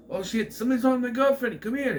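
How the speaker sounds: high, loud cry for help, acted out; mock alarm. Man lures the guest toward his girlfriend, acted alarm. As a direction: call someone over in a staged panic.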